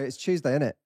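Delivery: "Tuesday" said Chewsday, Cockney style; Cockney "Tuesday", opening like chew. Shown as a demonstration. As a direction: start "Tuesday" with a chew sound. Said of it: "with chew".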